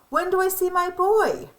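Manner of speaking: can't wait to meet him; eager grandfather. Retold or imitated. Grandfather hears baby news.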